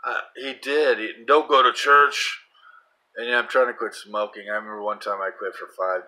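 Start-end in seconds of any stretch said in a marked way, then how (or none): 1.3-2.4 devil's command. Retold or imitated. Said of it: "the devil, cursed me".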